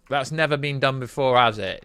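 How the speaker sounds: dry mock surprise; sarcastic. Real, not acted. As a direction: say it with an eye roll. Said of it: "I'm being very sarcastic here".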